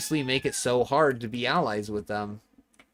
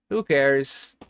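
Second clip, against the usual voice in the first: louder, punching the word who; defiant repeat; 3 semitones higher, 5 dB louder than usual. Acted. Streamer brushing off chat's judgement, defiant and louder. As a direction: throw it back at them, defiant.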